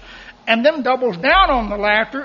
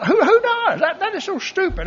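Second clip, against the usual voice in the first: laughing; 9 semitones higher than usual. Real, not acted. Laughing at himself mid-sermon.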